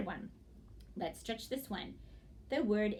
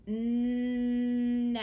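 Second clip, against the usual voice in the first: "Nap" stretched long and louder, separate p; said slowly; 7 dB louder than usual. Shown as a demonstration. Teacher stretches it on fingers, "Nap" drawn out loud. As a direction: hold "Nap" out, then pop the p. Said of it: "Now let's say it slowly".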